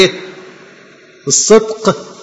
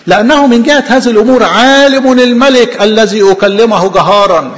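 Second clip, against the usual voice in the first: declaiming loudly; 5 semitones higher, 5 dB louder than usual. Acted. Preacher declaims Paul to the king.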